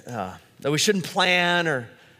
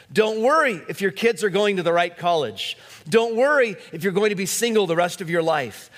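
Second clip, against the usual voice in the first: hammering Don't worry home; building preaching; 2 semitones higher than usual. Acted. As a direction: preach the list with growing force. Preaching a list of worries.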